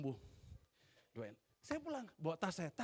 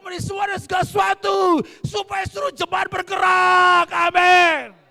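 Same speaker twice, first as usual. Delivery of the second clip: slow, shouted sermon climax, much higher and louder; full-force preaching; 12 semitones higher, 20 dB louder than usual. Acted. Preacher proclaims freedom from fear to congregation, shouting slowly. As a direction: thunder each word out to the church.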